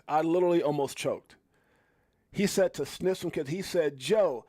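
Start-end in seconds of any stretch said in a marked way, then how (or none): 4.0-4.4 drawn-out mimicked name, squeaking up on Joseph; mock the reporter's high cry; high-pitched imitation. Host quoting the clip to viewers, high-pitched imitation. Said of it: "Can anybody get high like that?".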